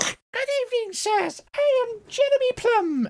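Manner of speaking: squeaky, very high tiny little voice. Storytelling, a character bows and speaks: squeaky Jeremy Plum voice. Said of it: "Squeaky voice time".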